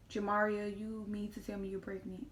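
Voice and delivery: loud, scolding disbelief; a mother yelling her daughter's full name; mom shouting my full name. Retold or imitated. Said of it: "Call me by my government name and everything".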